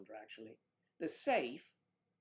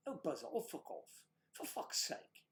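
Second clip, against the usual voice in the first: hushed mock retort; 3 semitones higher, 3 dB quieter than usual.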